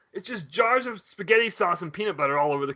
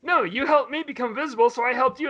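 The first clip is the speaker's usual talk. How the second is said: creature voice; 6 semitones higher than usual. Retold or imitated. Creature explains to kid.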